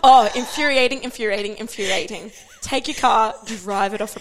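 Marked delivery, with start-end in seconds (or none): 0.0-2.3 mock rant. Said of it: "I'm so mad about it".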